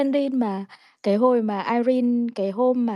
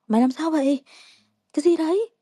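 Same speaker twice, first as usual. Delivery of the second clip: mock puzzled asking, rising to fast laughing; imitating a bewildered friend; what is it, what is it, half laughing; friend's puzzled question; 6 semitones higher, 3 dB louder, faster than usual. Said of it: "bạn tao bảo".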